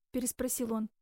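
ordinary delivery, nothing marked

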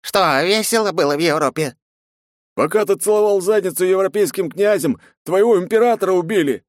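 man with a placard yelling at the knight; angry protester shout. A narrator's reading. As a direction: hurl the blame at him. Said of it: "воскликнул мужчина с плакатом".

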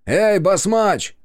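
slow, high, loud drawn-out call. Acted. Yurkan calls Basmach down the stairs, slow and loud. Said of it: "окликнул он".

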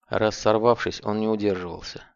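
ordinary delivery, nothing marked

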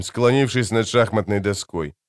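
usual speaking voice

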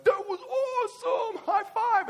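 put-on high-pitched, loud kid squeal with a laugh; excited kid. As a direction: gush like a thrilled eight-year-old. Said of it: "he would watch it and be like".

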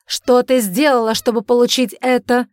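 loud, high furious yell; shouting. A narrator's reading. Father yells at his daughter, loud and furious. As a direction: shout him down. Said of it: "закричал он на неё".

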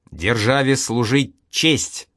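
slow, gloomy declaration. Acted. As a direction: say it sullenly, without conviction. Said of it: "угрюмо выдал Ваня". (угрюмо и медленно)

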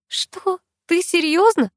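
sharp high indignant outburst; offended girl snapping back. A narrator's reading. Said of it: "возмутилась я".

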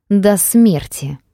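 slow loud growl; growling dog voice. Acted. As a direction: drag it out as a snarling threat. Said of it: "прорычал он". (медленное громкое рычание)

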